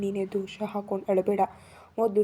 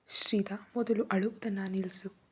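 serious voice. Acted. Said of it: "ಅವನ ಕಂಠ ತುಂಬಾ ಗಂಭೀರವಾಗಿತ್ತು".

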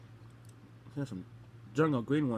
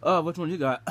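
laughing; 3 semitones higher, 9 dB louder than usual. Real, not acted. Laughing while eating gross beans.

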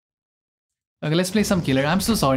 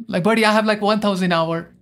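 higher, exasperated disbelief; indignant; 4 semitones higher than usual. Real, not acted. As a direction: protest that you're being wronged. Indignant at accusation of lying.

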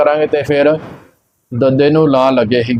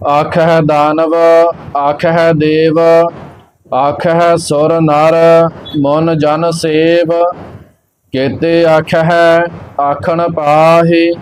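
slow, measured sacred recitation; scripture recitation; much slower than usual. Acted. Teacher reciting Gurbani for learners, slow measured chant-like reading. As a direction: recite evenly, drawing out the line endings.

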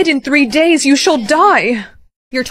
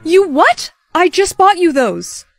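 shocked; 5 semitones higher, slower than usual. Acted. Mom hears headphones are lost.

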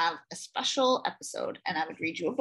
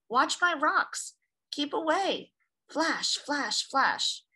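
lighthouse voice; 4 semitones higher, slower than usual. Acted. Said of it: "the little red lighthouse spoke out plainly".

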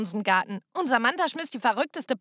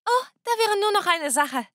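grinning; 8 semitones higher than usual. A narrator's reading. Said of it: "Emily sagte mit einem Grinsen".

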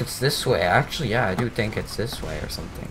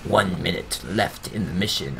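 lightly voiced countdown announcer, lower and measured; imitated female announcer; 5 semitones lower than usual. Gamer predicting her countdown warning, light announcer imitation. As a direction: mimic the in-game mission announcement. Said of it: "She's gonna say".

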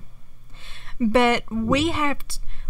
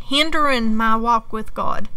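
normal talking voice

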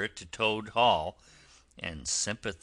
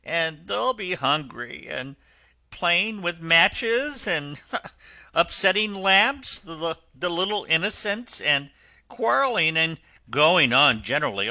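hammed-up sobbing; 8 semitones higher, 8 dB louder than usual. Toad lamenting his children to the driver, hammed-up sobbing. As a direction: pile up the woes in a tearful high wail. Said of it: "sobbed Toad".

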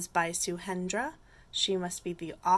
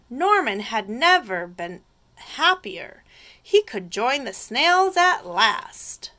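cheerful read-aloud with swooping tune; lively storytime voice; picture-book narration; 3 semitones higher, 11 dB louder than usual. A narrator's reading. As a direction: tell children the happy turn.

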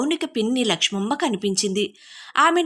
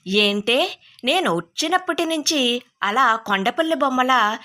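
mildly surprised; 3 semitones higher than usual. Acted. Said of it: "కాస్త ఆశ్చర్యంగా".

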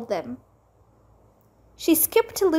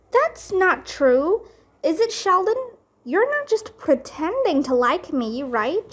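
shocked pleading; 5 semitones higher than usual. Acted.

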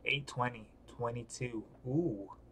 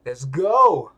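much louder "let's go"; hype shout; 9 dB louder, much slower than usual. Real, not acted. Psyching himself up before the fight, loud cheer. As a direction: fire yourself up.

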